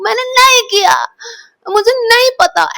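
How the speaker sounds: high, sobbing plea; crying denial. Retold or imitated. Daughter crying to her mother that she didn't do it, sobbing plea. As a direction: beg through tears, pitch way up. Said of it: "मैं बस ऐसे रो रही हूँ".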